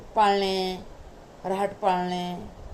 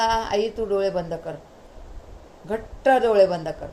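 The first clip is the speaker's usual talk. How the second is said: eager insistence; 4 dB louder than usual. Retold or imitated. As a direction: build up the suspense of the surprise. Son insists mother shut eyes.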